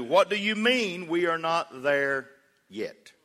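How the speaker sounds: slow, drawn-out exasperated question; mock a parent's drawn-out disbelief. Dad answering kid on a car trip, exasperated.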